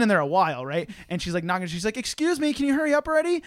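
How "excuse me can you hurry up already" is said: high-pitched mock female voice; put-on high, pushy voice; impatient girl. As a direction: imitate an impatient girl at the door. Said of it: "This girl comes into the bathroom".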